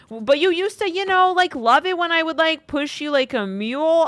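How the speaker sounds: high, loud imitation of a cocky guy; mocking the man. Reader voicing the boyfriend's boast, high and loud. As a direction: squeak it out like a smug fool bragging.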